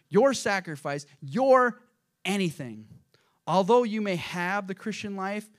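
slow, declaimed preacher's reading; measured reading that builds in force; emphatic quote reading. Acted. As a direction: hammer each item in the list loudly. Reads book quote emphatically.

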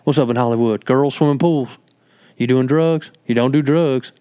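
imitated Carolina relative, nosy; put-on rural Carolina accent; North Carolina accent. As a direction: quiz like small-town North Carolina family. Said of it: "That's how the, the family talks".

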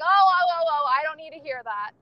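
imitated dad cutting in loudly; mock-alarmed "whoa, stop" delivery; startled protest. Dad stopping daughter's talk of cussing, in mock alarm.

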